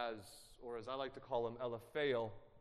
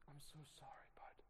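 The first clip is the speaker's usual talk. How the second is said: hushed apology; 19 dB quieter than usual. Retold or imitated. Retold comforting of grieving friend.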